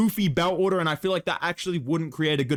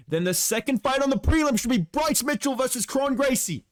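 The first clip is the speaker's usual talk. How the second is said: sick to death; 7 semitones higher than usual. Real, not acted. Complaining to his co-host about the goofy bout order, exasperated. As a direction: drag it out, fed up. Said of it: "I am sick to death".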